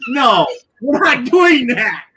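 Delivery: slow, loud no; emphatic mock refusal; firm refusal. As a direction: shout the refusal slowly. Refusing the scammer firmly.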